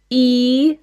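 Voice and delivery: E said as a clear front vowel; E sound. Shown as a demonstration. Teacher models E before the new sound. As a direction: hold a plain E.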